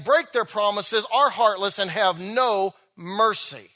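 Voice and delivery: steady sermon reading voice; scripture reading. Acted. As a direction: read the Bible passage aloud to the congregation. Preacher reads scripture passage.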